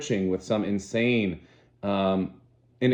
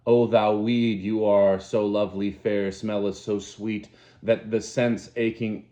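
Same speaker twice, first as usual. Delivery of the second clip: raving recitation; 3 dB louder than usual. Acted. Savage reciting Shakespeare in rage.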